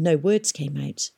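plain reading voice

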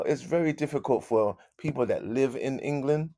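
ordinary talk

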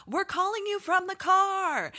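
high, loud, slow phone shout; Emily shouting down the phone at her daughter, loud and high; screaming into the phone. Retold or imitated. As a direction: yell it like the phone can't carry your voice. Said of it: "Emily is screaming into the phone".

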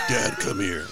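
put-on high, squeaky child calling; squeaky kid voice. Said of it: "He has a deep voice".

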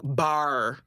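low imitated Irish "bar"; Irish accent. Quoting the fiancé repeating himself to friends, Irish accent. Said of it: "say it right in his accent".

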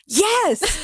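mock whoop at normal volume; retold whoop. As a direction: imitate yourself whooping from the audience. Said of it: "like, whooping and I'm like".

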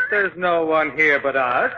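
slow words into a mocking laugh; eerie unseen laughter. The Shadow mocks them unseen, eerie laugh.

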